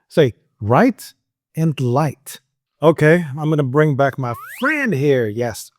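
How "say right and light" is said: "right" then "light", each word set apart; split minimal pair. Shown as a demonstration. Teacher splitting "right" and "light" for learners. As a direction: separate "right" and "light" with a pause.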